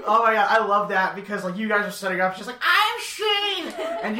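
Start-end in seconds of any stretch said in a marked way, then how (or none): 2.6-3.7 high, hammed-up announcement of being Shane; mock Shane voice. Friend jumping her cue as Shane, high and hammy. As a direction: pitch it way up and proclaim the name.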